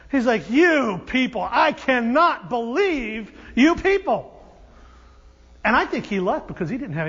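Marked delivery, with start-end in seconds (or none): 0.5-4.3 slow, emphatic exasperation; exasperated. Acted. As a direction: spell out your disbelief word by word. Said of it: "with exasperation".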